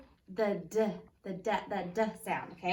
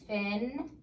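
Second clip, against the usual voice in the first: sounded out by syllables. Shown as a demonstration. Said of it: "we've written the word".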